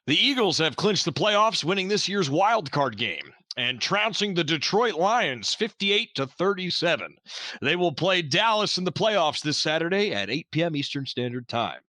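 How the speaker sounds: newsreader delivering scores on air; lightly voiced radio announcer; radio sportscast. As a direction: read it like a radio sports update. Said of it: "That was a great radio voice".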